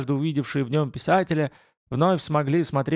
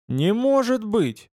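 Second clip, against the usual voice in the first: high, slow, amazed cry; startled exclamation; 9 semitones higher, slower than usual. Acted. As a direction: gasp it out in disbelief. Agent startled answering the phone.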